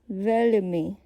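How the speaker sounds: veľmi with a softened, palatal ľ; veľmi said carefully, ľ palatalised; soft L. Shown as a demonstration. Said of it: "with a soft L".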